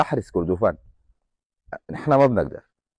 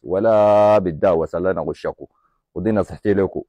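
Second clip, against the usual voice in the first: earnest advice; 3 semitones lower than usual. Retold or imitated. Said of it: "وانا بقول للشاويش".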